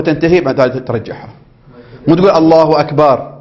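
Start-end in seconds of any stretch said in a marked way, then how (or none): 2.3-3.3 slow drawn-out الله أكبر, shown as wrong; wrong takbir. Shown as a demonstration. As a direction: stretch الله أكبر slowly as the mistake. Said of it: "لا". (تكبير ممدود خاطئ)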